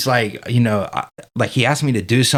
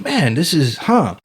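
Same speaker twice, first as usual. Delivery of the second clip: surprised realization; 5 semitones higher, slower than usual. Retold or imitated. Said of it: "So I was like".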